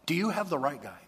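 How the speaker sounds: incredulous, rising to high, loud disbelief; blown away. Retold or imitated. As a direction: imitate a stunned man questioning his orders. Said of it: "don't you think Moses was blown away".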